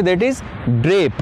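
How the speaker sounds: very slow, stretched key word; slow word reveal. Shown as a demonstration. Teacher revealing a vocabulary word, very slow. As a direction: hold the new word out clearly. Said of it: "जो word लगता है English में".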